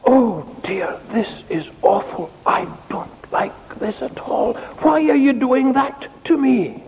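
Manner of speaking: high, plaintive objection; complaining fire. Acted. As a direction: wail in protest as the puffed-on fire. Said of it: "if you're a fire".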